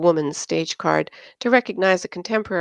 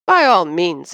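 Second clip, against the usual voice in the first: louder, hammed-up eager agreement; mock enthusiasm; 5 dB louder than usual. Josh sarcastically agrees to shield Anne, mock enthusiasm. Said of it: "enthused Josh".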